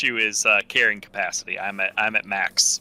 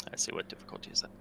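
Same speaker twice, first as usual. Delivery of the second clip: whispered to himself; whispering; 4 semitones lower, 15 dB quieter, faster than usual. Real, not acted. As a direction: mutter it under your breath. Muttering while searching notes.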